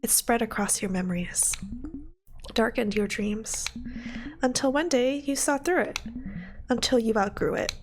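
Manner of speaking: measured, subdued storytelling; story narration. A narrator's reading. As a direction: narrate gently, pausing between phrases. Reads the game's narration.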